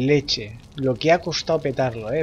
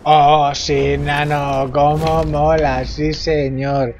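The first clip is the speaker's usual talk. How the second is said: excited; 4 dB louder, much slower than usual. Real, not acted. Celebrating victory.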